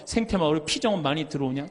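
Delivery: lightly voiced friend asking about retreats; casual, matter-of-fact call; friend's phone question. Priest imitates his classmate's phone question, lightly voiced. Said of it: "그럼 또 다음에 전화해갖고".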